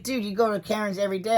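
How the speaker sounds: wife teasing that she goes to Karen's every day; wife voiced. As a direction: imitate the wife teasing, quickly. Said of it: "She's like".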